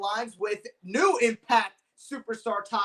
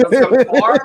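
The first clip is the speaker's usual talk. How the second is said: laughing; 15 dB louder, much faster than usual. Real, not acted. Guest laughs at own guess.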